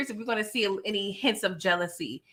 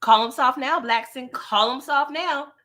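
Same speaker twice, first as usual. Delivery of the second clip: taunting; 3 semitones higher, 4 dB louder than usual. Real, not acted. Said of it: "I was like".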